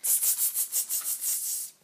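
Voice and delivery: soft unvoiced tutting monkeys; monkey tsk. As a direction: tut back like cheeky monkeys. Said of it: "monkeys only stamped their feet back".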